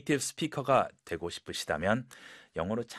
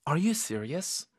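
worried; 3 semitones higher, much slower than usual. Shown as a demonstration. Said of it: "약간 이게 걱정되는 톤으로".

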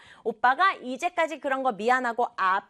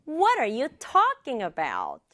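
a little quicker, still measured; slightly faster; much slower than usual. Shown as a demonstration. Teacher has students repeat, slightly faster. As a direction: join the words, keeping talking emphasized. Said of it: "조금만 빠르게".

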